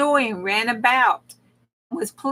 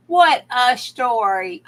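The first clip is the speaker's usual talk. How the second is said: exclaiming; 5 dB louder than usual. Real, not acted. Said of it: "I am saying".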